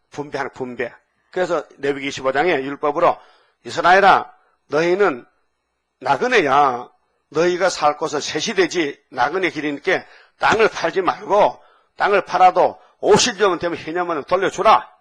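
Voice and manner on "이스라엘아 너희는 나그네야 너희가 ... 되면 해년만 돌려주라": proclaiming loudly. Acted. God addresses Israel in Leviticus.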